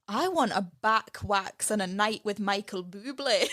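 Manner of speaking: put-on lightly done Scottish accent; a hint of Scottish hairdresser voice. Hairdresser quoted in a mild Scottish accent. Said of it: "my Scottish accent is terrible".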